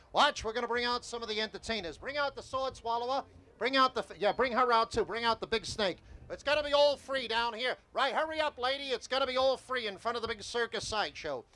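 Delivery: sideshow barker. Shown as a demonstration. Sideshow talker building a tip on Coney Island, barking. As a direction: reel the passersby in with a brisk barker call. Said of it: "I'm gonna build a tip like I would normally".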